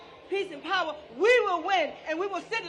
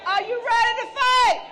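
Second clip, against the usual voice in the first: rally call, a little higher; rousing shout; 4 semitones higher than usual. Real, not acted. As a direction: hype the crowd with a shout. Rousing the crowd.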